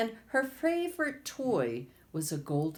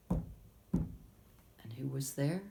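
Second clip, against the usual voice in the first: 1 slow suspense; 3 semitones lower, 4 dB quieter, much slower than usual. A narrator's reading. Suspense question to listeners.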